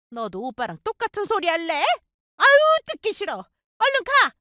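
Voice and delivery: put-on high, exasperated older woman; irritated mother-in-law. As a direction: shoo her daughter out in annoyance. Mother-in-law shooing daughter.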